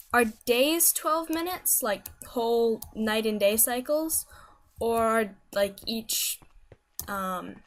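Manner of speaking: halting, slow search for words; tongue-tied. Real, not acted. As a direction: stumble slowly through the question. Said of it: "I can't even talk anymore".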